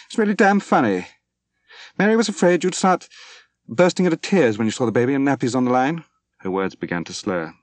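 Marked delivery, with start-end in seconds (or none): 0.1-6.0 much higher, louder, near-hysterical pitch. A narrator's reading. Drunk Moira tells Dwight Mary's fear, in shrill hysterical laughter. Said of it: "She laughed hysterically".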